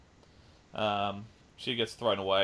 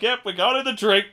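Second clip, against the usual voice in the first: breezy Joker; 10 semitones higher, 9 dB louder than usual. Retold or imitated. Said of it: "And he's like".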